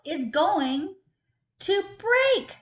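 high, loud alarmed cry; worried cry. Acted. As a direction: fret that the egg will smash. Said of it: "she cried".

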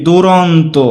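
দুরন্ত slowly, "du-ron-to"; pronunciation demo. Shown as a demonstration. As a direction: draw out the syllables of দুরন্ত. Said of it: "আমরা লিখলাম কি". (দুরন্ত ধীরে টেনে উচ্চারণ)

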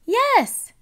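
put-on high, loud eager child; excited yes. A narrator's reading. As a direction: squeal the yes. Peppa eagerly agrees.

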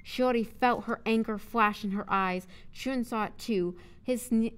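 firm, projected audiobook read; clearly enunciated dramatic narrator; story narration. A narrator's reading. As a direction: narrate the confrontation with punch.

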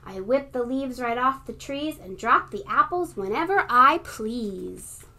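mighty shout. Acted. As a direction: puff up like a bragging gale. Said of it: "a whirling, twirling, mighty shout".

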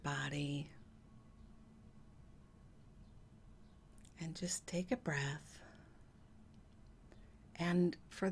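slow, soft meditation voice, long pauses; hushed and unhurried, easing the listener into relaxation; guided meditation. Acted. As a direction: let each phrase sink in softly.

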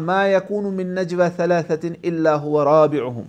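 slow, melodic Quran recitation; Quranic recitation. Acted. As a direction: chant the verse slowly.

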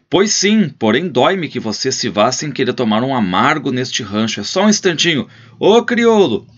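rancher's last plea before shouting to the servant. Acted. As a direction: coax the guest, then yell for the servant. Last plea, then call.

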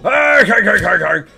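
barked "arg" cartoon laugh; throaty cartoon laugh. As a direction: chuckle in repeated args, falling away. Imitates Mister Krabs's laugh.

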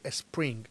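"spring" wrongly begun as "espring"; added initial E. Shown as a demonstration. Teacher warning learners off the error, "spring" with E in front. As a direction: put a vowel before the S in "spring". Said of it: "no vas a decir".

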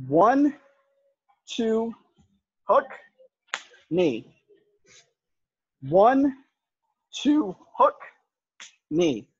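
calling out each strike; boxing coach calling combos. Shown as a demonstration. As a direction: call the combo in rhythm.

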